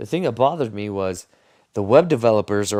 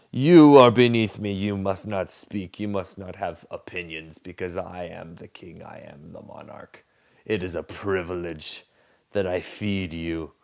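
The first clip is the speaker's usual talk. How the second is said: haughty king. Retold or imitated. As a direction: lightly voice a pompous king lecturing a peasant. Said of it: "they go".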